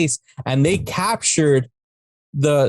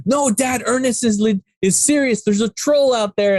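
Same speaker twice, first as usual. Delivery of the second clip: lightly voiced pleading kid, higher; imitated kid; 4 semitones higher than usual. Kid warning his dad about a troll, mock pleading. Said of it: "the kid's like".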